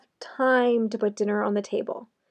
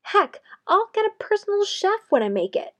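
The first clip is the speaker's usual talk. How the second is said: sarcastic; 3 semitones higher than usual. Acted. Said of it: "you can start to hear the sarcasm come out of my voice".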